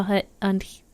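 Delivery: halting try at an American "here"; botched American-accented attempt; failed American accent. Shown as a demonstration. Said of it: "I can't say the American accent".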